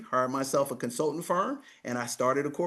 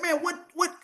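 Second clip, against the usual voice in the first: retold disbelief; 13 semitones higher than usual.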